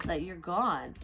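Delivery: ordinary talk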